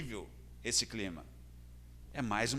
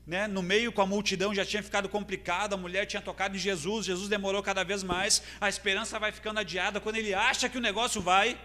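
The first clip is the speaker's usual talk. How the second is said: raised, urgent sermon delivery; impassioned preaching; 7 semitones higher, 5 dB louder than usual. Acted. Preacher recounting Jairo's fading hope to the congregation, impassioned. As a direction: build the momentum of a preacher.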